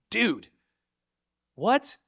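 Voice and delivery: high, loud disbelieving dude, what; incredulous. Real, not acted. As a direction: pitch it up in disbelief. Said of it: "disbelief at own plan".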